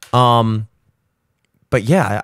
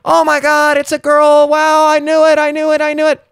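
excited exclaiming; 11 semitones higher, 3 dB louder than usual. Retold or imitated. Family exclaiming at reveal.

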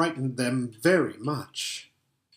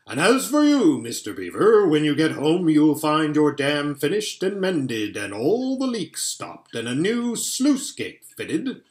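Father Christmas; 2 semitones higher, 4 dB louder than usual. Acted. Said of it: "Father Christmas speaking".

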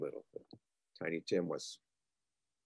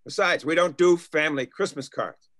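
irritated; 6 dB louder than usual. Acted. Snapping at teasing ghost.

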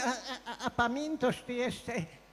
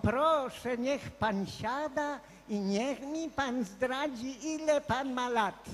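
put-on polite young student; 2 semitones higher, 3 dB quieter, slower than usual. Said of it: "tak grzecznie powiedziała".

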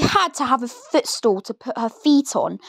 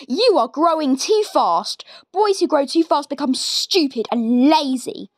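nasty Grandma; 3 semitones higher than usual. Acted. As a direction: sneer it like a wicked granny. Grandma scolds George.

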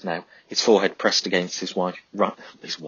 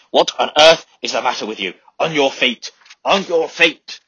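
high, loud furious yell; furious sergeant; 7 semitones higher, 8 dB louder than usual. A narrator's reading. Sergeant yelling at the hesitating men, furious shout. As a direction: scream them onto their feet.

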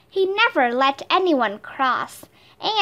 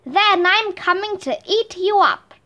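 roaring troll; 6 semitones higher than usual. Acted. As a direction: roar it out like a hammy troll. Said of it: "roared the troll".

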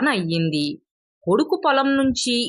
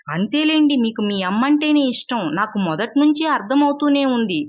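higher, sharp angry demand; 4 semitones higher than usual. Acted. Wife confronting husband about his mother, angry and higher. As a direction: corner him, rising anger. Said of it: "కోపంగా అంది".

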